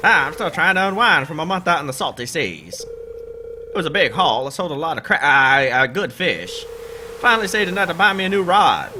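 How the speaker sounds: put-on high, hearty old sea dog; sailor voice. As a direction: boom it out like a salty sailor. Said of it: "This is my sailor voice".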